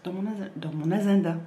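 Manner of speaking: words tripped by a hiccup; stumbling through hiccups. Real, not acted. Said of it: "Excusez-moi, j'ai le hoquet".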